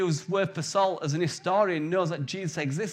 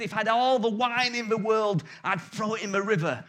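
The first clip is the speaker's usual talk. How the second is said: lightly voiced pulpit preacher, raised; ranting temperance preacher; 3 semitones higher than usual. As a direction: keep the sermon rolling against wine. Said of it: "And then he said".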